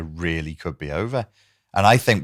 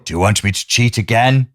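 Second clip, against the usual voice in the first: meme voice; 4 dB louder than usual. Pretend. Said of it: "I should voice memes more".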